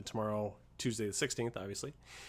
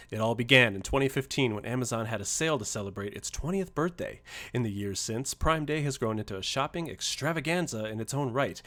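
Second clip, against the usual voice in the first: radio voice. Shown as a demonstration. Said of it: "let me read this in my best radio voice".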